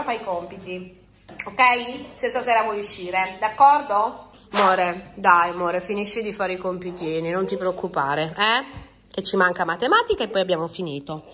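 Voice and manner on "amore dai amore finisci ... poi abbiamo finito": soothing coax. Real, not acted. Soothing daughter to do homework.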